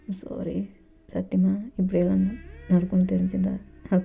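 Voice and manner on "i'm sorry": fading apology. Acted. Dev apologises to JK, fading to a murmur. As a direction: apologise gently, fading away.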